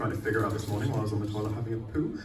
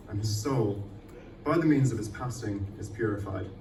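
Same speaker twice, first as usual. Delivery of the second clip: poem recital. Acted. Reading her poem to the open-mic audience, solemn measured recital. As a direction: recite it like a dark elegy, letting each image land.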